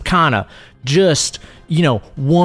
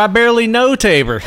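laughing shout; 7 semitones higher than usual. Real, not acted. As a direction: blurt the pun through a laugh. Pun punchline, laughing shout.

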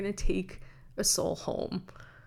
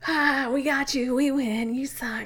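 gloating enemy; 4 semitones higher, 6 dB louder than usual. Pretend. Enemy voiced gloating in story.

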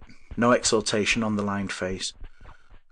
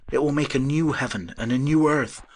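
raised, fervent visionary voice; exclaiming; 6 semitones higher, 4 dB louder than usual. A narrator's reading. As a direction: proclaim it with fervour. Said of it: "he exclaimed".

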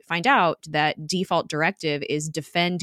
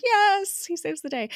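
excited cheer; 13 semitones higher than usual. Retold or imitated. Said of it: "I was like".

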